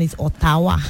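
Ottawa said with Yoruba tones on each syllable; Yoruba intonation. Shown as a demonstration. Host repeats the Yoruba joke for listeners, Yoruba tones. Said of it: "with the Yoruba intonation".

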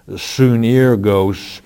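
"sunergos" said slowly, soo-ner-gose, each syllable given its weight; Greek pronunciation. Shown as a demonstration. Host answering a listener's question, sounding out the Greek word "sunergos" slowly. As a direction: spell out "sunergos" by ear, slowly and deliberately. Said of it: "in the Greek language".

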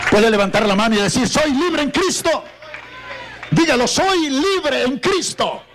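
very high, ringing rally cry; full-force preaching. Real, not acted. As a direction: lead the crowd in a triumphant declaration. Preacher calls for shouted declaration. (prédica a todo pulmón, voz muy aguda)

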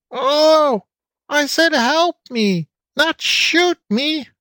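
high, slow, pleading wail; squeaky old goat gentleman crying for help. A narrator's reading. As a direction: cry out high and drawn-out for help. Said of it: "cried Uncle Butter".

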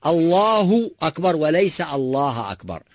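الله أكبر with u ending, not الله أكبر with a; right and wrong contrasted. Shown as a demonstration. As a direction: contrast allāhu akbar with allāha akbar. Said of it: "أرجوكم".

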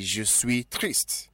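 slow model sentence. Shown as a demonstration. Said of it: "what is the adjective sad in French?".

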